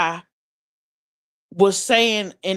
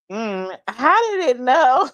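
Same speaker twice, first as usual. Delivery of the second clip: laughing disbelief; 3 semitones higher than usual. Retold or imitated.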